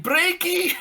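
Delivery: high squeaked warning; squeaky mock yell. Friend warning friend to stop, squeaky high yell.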